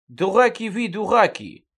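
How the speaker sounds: shouting dураки, exasperated; angry shout. A narrator's reading. King scolds his sons. (сердитый окрик)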